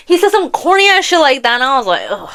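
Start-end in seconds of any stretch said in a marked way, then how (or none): 2.1-2.3 retold groan of disgust. Listener reacting to a corny book line, disgusted groan.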